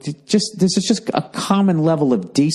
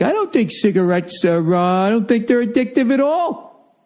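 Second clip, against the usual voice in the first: mock cigarette exec; 8 semitones higher than usual. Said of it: "cigarette companies going like".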